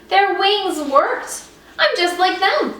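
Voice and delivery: put-on young bat thrilled she can fly; excited. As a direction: burst with joy. Excited thought.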